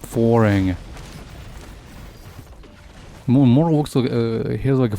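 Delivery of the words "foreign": "foreign" as FOR-ing; corrected pronunciation. Shown as a demonstration. Gamer trying out the corrected word, FOR-ing pronunciation. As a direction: stress the first syllable of "foreign", ending in -ing. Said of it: "More foreign".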